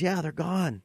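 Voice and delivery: soft, quiet, slow reassurance; a lightly voiced soft Jesus comforting the woman; tender reassurance. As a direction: gently tell her she's safe, hushed. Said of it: "And Jesus says".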